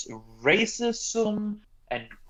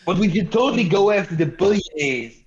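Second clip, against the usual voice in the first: mock Bernie voice. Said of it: "Are you talking about Bernie Sanders?".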